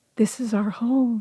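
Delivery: put-on forlorn, deeply sad, soft despairing murmur. Describing the voice heard in the main bedroom, quote it: imitating a very sad voice. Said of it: "it sounds like a v very sad".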